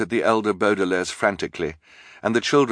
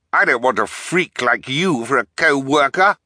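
higher, scornful objection; crying out; 6 semitones higher, 4 dB louder than usual. A narrator's reading. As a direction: protest with raised voice. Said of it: "the bald man cried".

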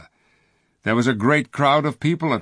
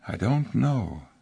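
miserable. Acted. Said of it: "said Jewel miserably".

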